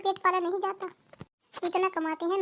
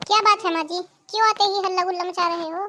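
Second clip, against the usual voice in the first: louder, annoyed snap at the mother-in-law; irritated daughter-in-law raising her voice; irritated loud reply; 5 dB louder than usual. Acted. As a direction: scold her for all the shouting. Irritated daughter-in-law snaps back.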